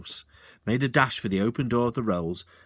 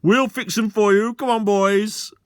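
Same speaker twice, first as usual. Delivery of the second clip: louder, hearty reassurance; cried out; 10 semitones higher, 8 dB louder than usual. Acted. Sergeant loudly reassuring the landowner. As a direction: call out with false helpfulness. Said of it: "cried out".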